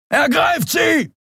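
high, slow shouted order; drawn-out alien battle cry; inhuman command. Acted. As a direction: bellow the order like a monstrous captain. Guard commands the arrest.

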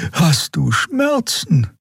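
very high, slow, drawn-out alarm; high creature voice, anxious; worried Xea. Acted. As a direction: reach out in concern. Xea alarmed at his pain.

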